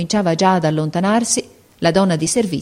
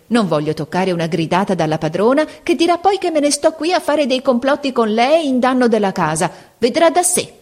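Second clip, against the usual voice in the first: a sly, spiteful rising tone; malicious satisfaction; 5 semitones higher than usual. Acted. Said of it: "con aria di maligna soddisfazione". (con maligna soddisfazione)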